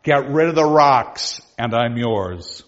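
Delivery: slow, deliberate offer; coy challenge. Acted. Wife teasing the young squire, slow and deliberate. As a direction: dangle the offer slowly.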